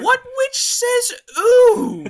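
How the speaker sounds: high squeaky laughing question; laughing disbelief. Real, not acted.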